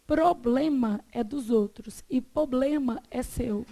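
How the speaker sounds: slow, first "problema" full, second "problema" as "poblema", without its first r; mock explanation. Retelling someone's explanation to the class, slow mock-didactic. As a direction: explain slowly, contrasting "problema" with a dropped-r "poblema", ending in a laugh. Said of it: "já vi uma pessoa explicar".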